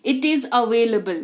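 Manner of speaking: very slow, spelled-out English for practice; slow model sentence. Shown as a demonstration. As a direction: lay out every word slowly. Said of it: "teacher models the English line". (धीमी गति में अभ्यास वाक्य)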